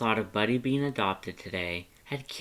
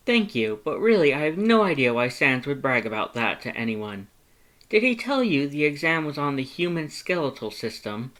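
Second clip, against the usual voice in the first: higher, louder bashful brag; flustered Papyrus; 4 semitones higher, 4 dB louder than usual. Acted. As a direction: deflect the praise up high and loud. Papyrus voiced in story.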